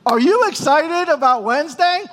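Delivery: high, excited imitation of a wife; eager question. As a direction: pitch it up with bubbling anticipation. Wife's eager question, repeated daily.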